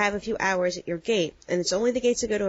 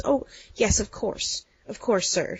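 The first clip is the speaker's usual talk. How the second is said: lightly imitated Irish accent, politely agreeing; a hint of an Irish desk clerk humoring a rude man; slower than usual. Irish clerk placating a rude passenger, light Irish accent. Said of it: "she says in her Irish accent".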